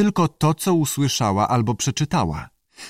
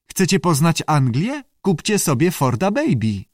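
higher-pitched pupil reciting a slogan; lightly voiced advert patter; advert-like answer; 5 semitones higher than usual. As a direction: pitch it up like a light sales plug.

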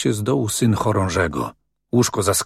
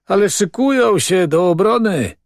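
higher, emphatic conviction; confident assurance; 9 semitones higher, 3 dB louder than usual. A narrator's reading. Assuring the doubter they will defend themselves, with conviction. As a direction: insist eagerly, fully convinced. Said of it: "zapewnił z przekonaniem".

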